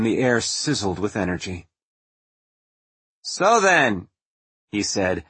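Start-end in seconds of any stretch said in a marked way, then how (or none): 3.2-4.1 higher, nasal, amused host; lightly voiced, sly and relaxed; Tesla voice. A narrator's reading.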